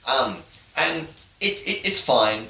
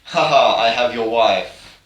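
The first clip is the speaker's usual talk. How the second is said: villain gloat; 5 dB louder than usual. Retold or imitated. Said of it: "Matthias is like".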